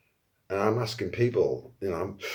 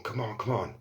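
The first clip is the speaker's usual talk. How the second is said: muttered pleading; 6 dB quieter than usual. Retold or imitated. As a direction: mutter it under your breath, still hoping. Willing the pot to go off.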